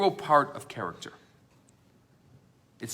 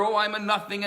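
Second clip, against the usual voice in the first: raised, higher cry of I'm a nothing; screaming louder; 5 semitones higher than usual. Retold or imitated. Student competing to scream he is nothing. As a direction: try to outshout the other. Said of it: "even screaming louder".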